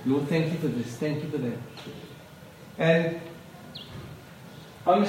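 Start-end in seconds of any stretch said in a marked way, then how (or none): 0.1-1.6 quiet grateful prayer. Acted. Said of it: "with gratitude".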